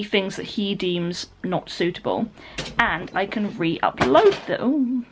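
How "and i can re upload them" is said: slow "re-upload them" tailing into a slurred "them"; fluffed delivery. Real, not acted. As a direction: stumble on the end of "re-upload them", drawing it out. Fluffed word, then laughs, redoes.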